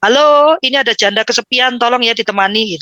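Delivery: calling out. Retold or imitated. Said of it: "biasanya saya teriak-teriak".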